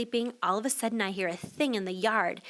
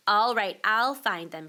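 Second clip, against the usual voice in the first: not very nicely; slower than usual. Acted. Mother giving up on the argument, a bit curt and impatient. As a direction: snap it out impatiently. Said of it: "not very nicely".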